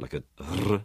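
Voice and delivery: "R" rolled at the tongue tip; trilled R. Shown as a demonstration. Demonstrating the other possible Elizabethan R, trilled. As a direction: roll the R at the front. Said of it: "a trill at the front".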